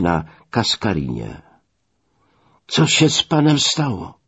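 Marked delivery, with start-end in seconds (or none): 2.7-4.2 high-pitched, concerned call; zaniepokojone wołanie. Acted. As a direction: call out a worried question, pitched well up. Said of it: "zawołałem". (zaniepokojone, wysokie zawołanie)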